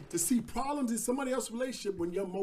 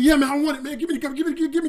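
loud, grabbing give me give me; greedy eager demand; 5 semitones higher, 8 dB louder, faster than usual. Acted. Midas demands the golden gift from god, greedy and loud. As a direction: beg for it like a greedy kid.

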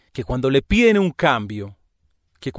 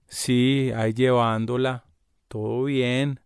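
soft, droopy, dispirited reply; discouraging tone; 3 semitones lower, 5 dB quieter, slower than usual. Retold or imitated. Mimicking the coworker's listless phone manner. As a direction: let the words sag with no enthusiasm. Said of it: "Pero este tono de".

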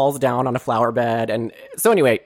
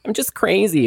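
higher-pitched mock apology from a girl; acted-out apology; 5 semitones higher than usual. Girl to her driver after mooning everyone, mock apology. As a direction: play the girl saying sorry, voice lifted. Retelling the girl's gushing apology.

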